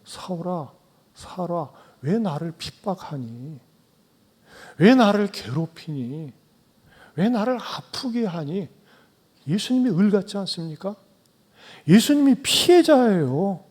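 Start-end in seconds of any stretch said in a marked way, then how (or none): 0.1-8.7 pleading. Acted. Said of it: "예수님이 사울에게".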